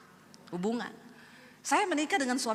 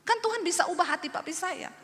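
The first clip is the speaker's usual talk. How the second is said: retold angry prayer; 8 semitones higher than usual. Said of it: "saya marah sama Tuhan".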